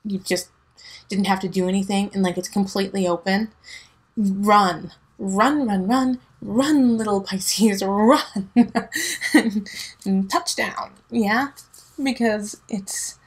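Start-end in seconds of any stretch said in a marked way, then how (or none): 4.2-8.5 rising excited chant of run; cheering run. Pretend. Cheering the Pisces on to the touchdown, excited. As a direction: urge them on, building.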